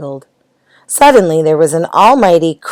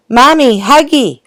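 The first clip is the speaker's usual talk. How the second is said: screamed; 8 semitones higher than usual. A narrator's reading. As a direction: cry out like a small child. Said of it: "screamed the baby".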